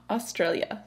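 Australia said in full, four syllables, falling; full form Australia. Shown as a demonstration. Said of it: "a slang term for Australia".

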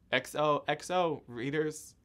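slow, sly narrator sign-off; Gossip Girl sign-off. Pretend. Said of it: "Did I do that right?".

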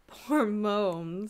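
fond, smiling pity for the dog. A narrator's reading. Wife smiles over the naughty dog, fondly.

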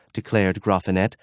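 ordinary delivery

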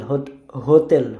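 slow হোতেল with dental t; Polish soft T. Shown as a demonstration. Teacher repeats for learners, slow soft-t হোতেল. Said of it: "টির জায়গায় বলে".

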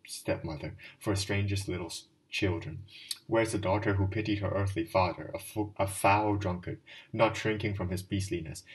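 put-on a drunk man preaching his grief; a mildly voiced drunken clerk, pleading; drunken Marmeladov's plea. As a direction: pour out a drunkard's lament.

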